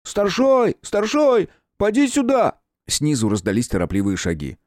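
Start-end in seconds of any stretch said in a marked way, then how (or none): 0.0-2.6 high, loud call down the stairs. Acted. Leaning over the rail, calling the chief loudly downstairs. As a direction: holler into the dark for the boss. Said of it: "крикнул в полумрак первого этажа".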